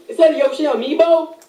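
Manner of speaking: surprised gasp. Real, not acted. Spotting a Yoshi amiibo.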